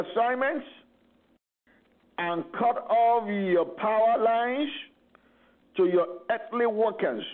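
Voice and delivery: rising, intense preaching prayer; fervent prayer. Acted. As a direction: declare it like a battle decree. Continues the warfare prayer.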